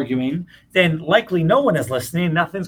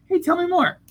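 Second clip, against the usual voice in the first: curious and warm; 2 semitones higher, faster than usual. Pretend. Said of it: "If I don't have all the answers".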